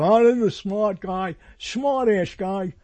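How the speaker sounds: mock reaction of an email recipient; imagined recipient's voice. Email recipient remarking on a smart guy, put-on voice. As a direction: put on a slurring voice for the second half. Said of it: "he doesn't talk like that".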